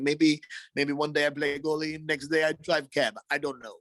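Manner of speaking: lightly voiced nonchalant goalie; a hint of an offhand player in an interview; Sergei Bobrovsky. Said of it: "Bobrovsky moments when he's getting interviews".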